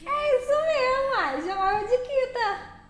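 high, slow mock-crying whine; mock whimper. Remembering hating the nickname Kita, mock-crying high and slow. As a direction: whimper it like a sulky little girl.

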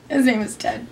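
whispered, a secret confession; whispered aside. Real, not acted. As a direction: let the name slip out in a whisper.

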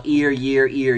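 clear, exaggerated ear and year for lipreading; visible ear, year. Shown as a demonstration. Teacher showing "ear" and "year" to the class. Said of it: "all of a sudden I put my hand over my mouth".

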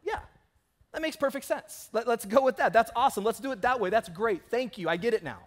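light up as it finally clicks; delighted realization. Retold or imitated. Pastor retelling his reaction to Jake's explanation, high and excited. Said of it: "I was like".

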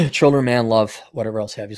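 hoarse, strained voice; losing your voice. Real, not acted. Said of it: "I'm losing my voice again".

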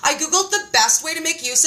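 high, bubbly excited friend; a friend gushing on the phone about a new diet. Retold or imitated. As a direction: mimic a friend bursting with news. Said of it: "she calls me up and she's like".

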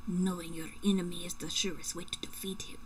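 badly faked German movie-villain accent. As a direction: play a film terrorist with an unconvincing German accent. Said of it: "I'm like a bad German terrorist".

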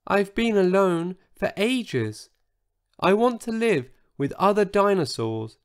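high, small pleading voice; begging. A narrator's reading. Lonely dinosaur asks to join the others, begging. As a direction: plead like a lonely little creature. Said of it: "begged Sizo".

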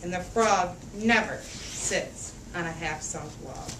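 lively picture-book read-aloud; reading to children. A narrator's reading. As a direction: read it out for a room of little kids. Reads picture book to kids.

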